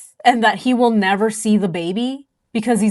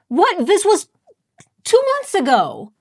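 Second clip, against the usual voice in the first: real surprise; 8 semitones higher than usual. Real, not acted. Body found two months ago.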